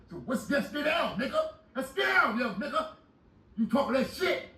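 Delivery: daring the cellmate to step outside, yelling; retold dare to fight. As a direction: call him out to fight. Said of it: "I said".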